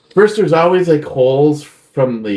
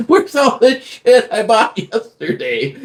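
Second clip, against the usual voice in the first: mock exasperated dad; 11 semitones higher than usual. Dad's exasperation acted out.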